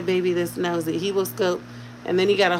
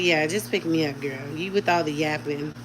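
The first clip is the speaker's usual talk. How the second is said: voicing the baby; 6 semitones lower, 6 dB quieter than usual. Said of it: "Oh, he like".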